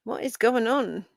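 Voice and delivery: ordinary talk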